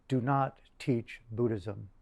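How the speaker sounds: slow, deliberate retold instruction; very explicit. Teacher telling his student what not to do, slowly and explicitly. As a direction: space out each word, leaving no doubt. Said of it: "told me very explicitly".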